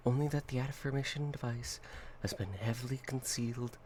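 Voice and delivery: formal report read; document reading. Acted. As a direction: read it like a file. Reads SCP document.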